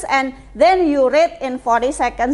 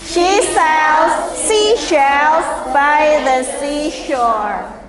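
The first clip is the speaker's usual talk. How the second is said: very slow tongue twister demonstration; teacher drilling at half speed; repeat-after-me model; much slower than usual. Shown as a demonstration. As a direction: stretch each word out for the class. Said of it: "You can repeat after me".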